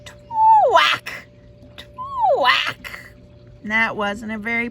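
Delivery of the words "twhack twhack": high squawk; a duckling failing to tweet; duckling trying to tweet; botched tweet. Acted. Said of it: "the best he could do was".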